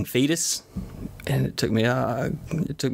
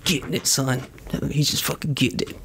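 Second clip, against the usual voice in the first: pitched up, marveling at his son; amused disbelief; 3 semitones higher than usual. Retold or imitated. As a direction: tell it like you can't believe it. Son caught dancing at night.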